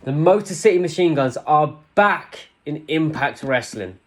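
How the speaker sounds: excited announcement. Real, not acted. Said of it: "I'm so excited".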